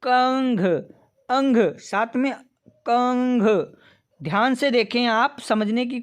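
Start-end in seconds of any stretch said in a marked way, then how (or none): 0.0-3.4 कंघ with a nasal ng before the g; sounding out the nasal. Shown as a demonstration. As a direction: stress the nasal in अंग and कंघ. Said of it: "इसका उच्चारण करते हैं हम".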